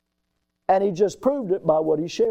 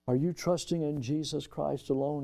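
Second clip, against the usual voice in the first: soft, lowered retelling; hushed bedside question; 3 semitones lower, 9 dB quieter than usual. Retold or imitated. Preacher recalling his question at a man's bedside, hushed. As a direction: drop to a gentle, quiet ask. Retold bedside talk with dying man.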